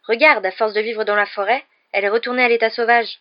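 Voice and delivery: loud, thrilled exclamation; delighted. A narrator's reading. Ron showing Harry the car gone wild, delighted. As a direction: show it off with delight. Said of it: "dit Ron d'un air ravi".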